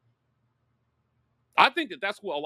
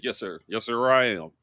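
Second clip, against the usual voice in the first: lower, light Southern country accent, imitating the player; 6 semitones lower than usual. Host quoting the young quarterback, a hint of country accent. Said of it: "He said it with the country accent".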